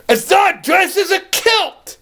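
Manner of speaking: high squealing Grinch cry. Retold or imitated. Vlogger quoting the Grinch scolding Max, in a high shriek. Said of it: "he goes".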